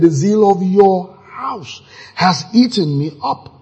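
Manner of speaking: shouted scripture, building on "eaten"; preaching shout; fervent shout. Acted. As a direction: proclaim it with passion. Preacher quoting Psalm with fervor.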